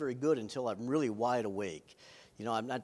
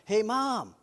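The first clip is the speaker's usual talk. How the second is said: raised, louder mock call; imitated holler for mom; imitated kid's yell; 6 semitones higher, 5 dB louder than usual. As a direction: yell down the stairs like a boy. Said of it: "one of them yelled down".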